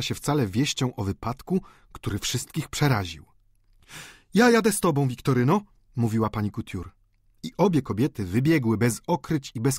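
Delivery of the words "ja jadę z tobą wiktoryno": urgent. Acted. Woman hurrying to go along.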